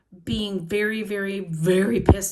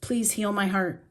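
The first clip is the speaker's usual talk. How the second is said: pleading prayer. Shown as a demonstration. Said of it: "I just keep saying".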